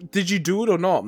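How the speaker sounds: high, exasperated demand; mock exasperated parent. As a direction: play the fed-up adult. Parent voicing kid interrogation.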